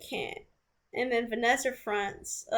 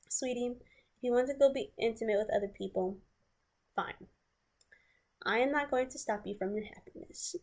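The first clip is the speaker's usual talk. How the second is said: sweet passive-aggressive. Retold or imitated. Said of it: "This is how he said it, though".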